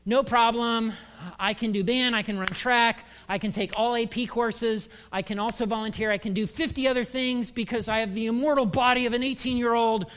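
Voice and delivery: breezy mock bravado, piling up boasts; overconfident student. Preacher voicing overcommitted student's thinking, mock confident. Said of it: "the student thinking is".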